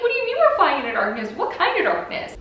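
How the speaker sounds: high, loud laughing questions; laughing disbelief. Real, not acted. Girl recalls the spooky announcement, laughing disbelief. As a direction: spill it out fast through laughter. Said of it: "it freaked me out".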